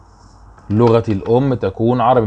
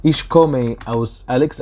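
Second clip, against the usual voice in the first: slow demo; much slower than usual. Shown as a demonstration. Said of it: "teacher models German sentence".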